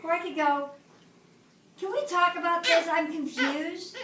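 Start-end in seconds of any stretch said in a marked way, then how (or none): 1.8-4.0 higher, friendly and open; polite, open question. Shown as a demonstration. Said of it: "The first one".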